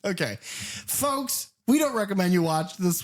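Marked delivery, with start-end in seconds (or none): 0.4-1.5 hushed warning to listeners; soft, breathy address; whispered aside. Real, not acted. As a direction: whisper it to the audience. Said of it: "addresses audience".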